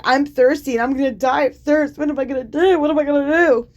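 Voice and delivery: hammed-up panicky whining; mock whine. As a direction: whine like a spoiled brat. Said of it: "He's like".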